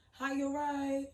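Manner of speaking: high, loud, drawn-out greeting; concerned greeting. Retold or imitated. Stranger in the park checking on a parent, concerned greeting. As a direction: call it out high and stretched.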